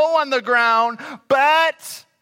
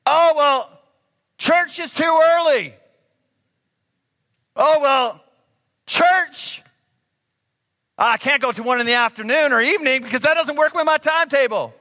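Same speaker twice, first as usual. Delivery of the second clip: whiny complaining; 5 semitones higher than usual. Retold or imitated. Preacher mocks churchgoers griping about service times, high whine. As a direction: whine like it's all too much trouble. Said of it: "We complain, complain, complain".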